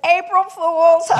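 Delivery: slow, loud gotcha through laughter; spring the joke, laughing; laughing reveal. Retold or imitated. Clerk to mom revealing the prank, laughing loudly.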